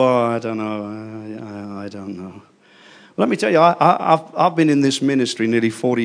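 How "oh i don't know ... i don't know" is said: lowered, hesitant, mock-fearful mumble; a small unsure voice, stammering; timid dithering. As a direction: play the frightened believer who backs off. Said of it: "most of us go".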